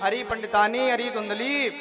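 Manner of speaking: rising call that peaks high and loud; calling out loudly. Acted. Husband calling his wife at the door, shouting. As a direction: call out, building to the last words. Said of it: "जोर से चिल्लाए".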